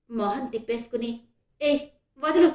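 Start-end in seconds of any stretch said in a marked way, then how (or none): 1.6-2.5 narrator's brief higher, louder cry; shrill cry. A narrator's reading. Woman turning her face from the man, shrill protest. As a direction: cry out to be released, pitched up. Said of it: "కీచుగా అరిచింది శ్రేష్ఠ".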